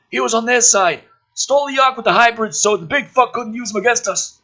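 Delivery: high, loud brash military man; gruff officer voice. Acted. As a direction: play the cocky colonel loud and high. Woodhurst voiced in script.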